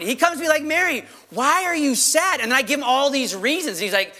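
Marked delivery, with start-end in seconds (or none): 0.6-2.4 drawn-out, higher-pitched challenge; acted puzzled reproof; mild rebuke. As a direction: gently scold with a slow question. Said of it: "yes, in a rebuke".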